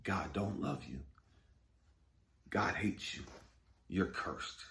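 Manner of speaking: low, soft taunting inner voice, fading to a whisper; ego's taunting voice. Retold or imitated. Ego taunting him, low and hushed. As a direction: murmur the ego's cruel lies. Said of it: "My ego was playing with me".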